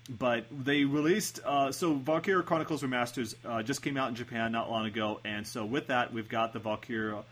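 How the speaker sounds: rushing without a pause for air; all in one breath. Real, not acted. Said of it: "Trying to say this all in one breath".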